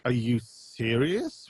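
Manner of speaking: slow, incredulous question; mildly exasperated, drawn-out disbelief; retold disbelief. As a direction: draw it out as if you can't believe the complaint. Retells own disbelief at complaints.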